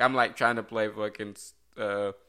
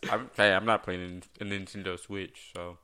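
talking around a wad of gum; chewing gum; 2 semitones lower than usual. Real, not acted. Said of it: "I got gum in my mouth".

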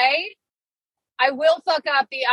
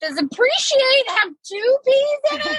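puzzled self-doubt; 13 semitones higher, slower than usual. Retold or imitated. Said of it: "and I'm like".

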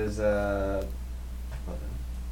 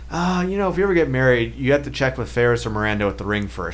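pointed hint imitated; faster than usual. Boyfriend retelling his girlfriend's ring advice, mock pointed hint. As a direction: imitate a partner dropping a not-so-subtle hint. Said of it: "I didn't say it like that".

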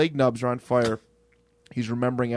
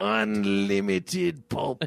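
mock ad; much slower than usual. Joining the mock ad.

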